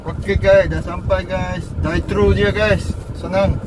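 muffled masked speech; speaking behind cloth mask; through a face mask. Real, not acted. Seen 1: Driver wears blue surgical mask over mouth throughout; references unmasked.

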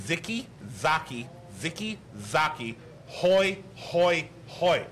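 Ziki Zaki said with K sounds, then Hoi, word by word; German pronunciation. Shown as a demonstration. Correcting a co-host's chant, German-style "Ziki Zaki" with K. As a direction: show the German way: hard K in "Ziki Zaki", slow and deliberate. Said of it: "That is the German pronunciation".

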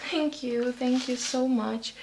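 soft, overwhelmed thanks; hushed, heartfelt gratitude; emotional. Real, not acted. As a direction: thank them softly, overcome with emotion. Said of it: "I'm feeling so emotional right now".

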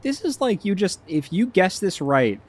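high, excited protest; imitating Akash. Friend begging not to hear spoilers, high protest. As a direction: squeal it out like a worried spoiler-hater. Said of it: "Akash was like".

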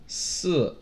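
short, sharp fall on "四"; falling fourth tone. Shown as a demonstration. Teacher marking tones on numbers, falling. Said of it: "fourth tone".

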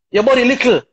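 mock loud shout. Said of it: "on top of her voice".

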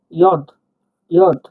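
ইয়দ said short as yod; teacher repeating ইয়দ; word demo. Shown as a demonstration. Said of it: "দেখুন".

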